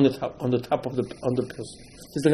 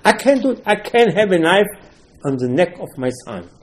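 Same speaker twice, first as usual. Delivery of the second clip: pleading Avraham; 5 semitones higher than usual. Acted. Avraham refuses the sacrifice.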